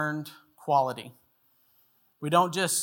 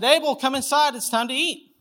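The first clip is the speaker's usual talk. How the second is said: high, louder re-enacted call to a child; hollering; 8 semitones higher, 5 dB louder than usual. Dad calls his two-year-old in from the yard for dinner, hollering. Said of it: "hollered at him down in the yard".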